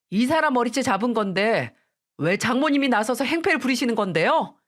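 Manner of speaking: husband sulkily blaming his mother-in-law; husband defending his mother, indignant; indignant protest. Acted.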